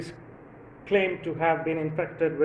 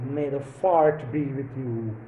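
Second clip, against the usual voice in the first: Yoda; 4 semitones lower than usual. Pretend. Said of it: "Yoda telling to Jedi".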